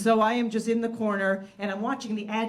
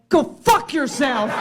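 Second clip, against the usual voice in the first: snarled brush-off; 4 semitones higher, 7 dB louder, slower than usual. Retold or imitated. Stranger tells her off.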